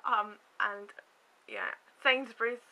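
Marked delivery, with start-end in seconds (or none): 1.5-2.6 slow lisped "Sainsbury's" and "mushroom soup"; numb mouth lisp. Real, not acted. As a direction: struggle through the S sounds. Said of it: "I can't say things like that".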